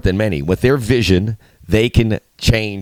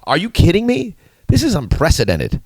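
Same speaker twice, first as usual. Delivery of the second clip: much higher, mock disbelief; delighted can't-believe-it outburst; incredulous; 7 semitones higher than usual. Real, not acted. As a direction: pitch it up in amazed disbelief. Host marvels at English dominance.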